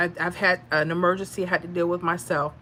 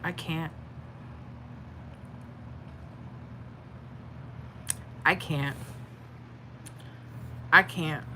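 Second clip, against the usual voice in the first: overwhelmed; 4 semitones lower, 10 dB quieter than usual. Real, not acted. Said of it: "I'm about to start crying".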